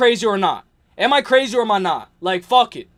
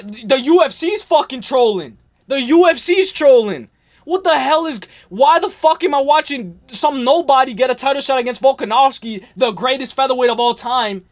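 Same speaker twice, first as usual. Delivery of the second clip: ranting angrily; 4 semitones higher than usual. Real, not acted. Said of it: "let me tone it down".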